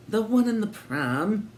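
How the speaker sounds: high, slow, pointed; suspicious landlady. A narrator's reading. Landlady pointing out the pram, high and suspicious. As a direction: let the suspicion show.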